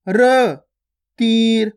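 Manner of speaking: र said short and half, no vowel after it; तीर with half र; half final letter. Shown as a demonstration. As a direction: clip र to a half sound, then तीर. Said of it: "यानी कि आधा करते हैं".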